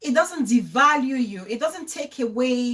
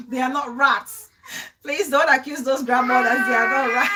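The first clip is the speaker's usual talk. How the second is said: half-laughing, half-crying, louder plea; 4 dB louder than usual. Real, not acted. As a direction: beg through laughter, voice breaking.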